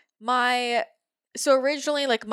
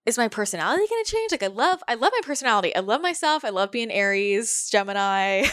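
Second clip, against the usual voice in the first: retold freak-out. Host retelling her fear of losing her personality, mild freak-out. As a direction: act out a mild freak-out, voice lifting. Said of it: "and then I freak out and I'm like".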